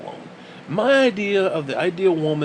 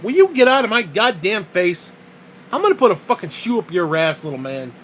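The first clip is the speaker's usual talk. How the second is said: louder mock-angry telling off; annoyed yell; 3 semitones higher, 5 dB louder than usual. Real, not acted. Man scolding his pestering dog, loud and fed up. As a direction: bark it at the dog.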